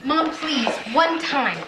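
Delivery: pleading. Acted. Teen begging mom for permission.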